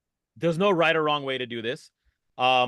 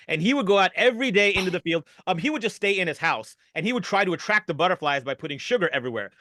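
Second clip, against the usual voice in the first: improvised storytelling; 3 semitones higher than usual. Acted. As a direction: tell an improv story on the fly.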